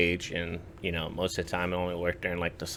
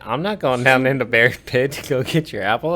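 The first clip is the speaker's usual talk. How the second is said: exasperated protest; 5 semitones higher, 8 dB louder than usual. Retold or imitated. Protesting to kid in retold scene.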